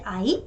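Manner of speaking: 아이 with a long 아 and a short 이; 아이, long first vowel. Shown as a demonstration. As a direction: stretch 아, clip 이 in 아이. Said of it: "아가 길고 이가 짧아요".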